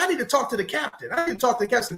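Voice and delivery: high, whiny worried wife voice; complaining wife. Retold or imitated. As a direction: whine it like a wife scared of the storm. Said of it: "She said".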